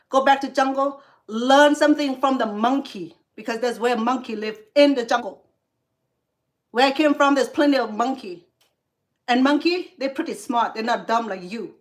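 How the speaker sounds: loud, scornful jeering; angry insult. Real, not acted. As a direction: shout him back to the jungle. Insulting the troll loudly.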